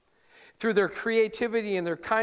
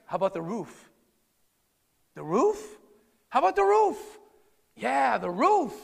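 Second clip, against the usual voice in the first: voiced friends; 3 semitones higher than usual. Friends plotting, acted dialogue.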